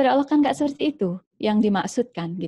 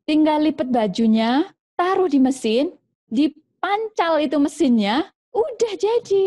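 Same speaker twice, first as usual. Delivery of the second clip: lecturing mother; 4 semitones higher than usual. Acted. Mother lecturing her child at length about sewing, mildly voiced. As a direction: drone on explaining sewing to the kid. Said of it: "panjang lebar".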